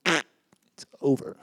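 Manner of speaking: slow whispered ultimatum; mock vow whispered to the bride; whispered threat. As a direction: whisper it like a secret condition. Mock wedding vow punchline.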